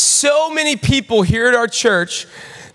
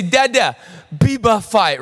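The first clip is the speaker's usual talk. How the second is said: put-on toddler voice. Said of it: "she'll say".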